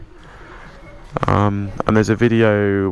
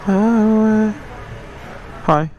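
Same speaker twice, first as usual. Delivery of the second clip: muffled by a bike helmet; ordering with a helmet on; talking through a helmet; 5 semitones higher, much slower than usual. Real, not acted. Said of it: "Sorry, I've got the helmet on".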